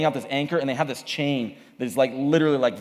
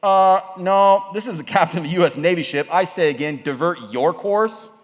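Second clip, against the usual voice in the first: lightly voiced captain on the radio; firm radio order, slowing at the end; a hint of military insistence; American navy captain; 4 semitones higher, 3 dB louder than usual. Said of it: "The Americans come back and they say".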